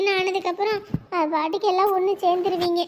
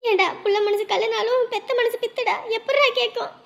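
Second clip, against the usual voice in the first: crying lament; 4 semitones higher than usual. Acted. Mother grieving over daughter.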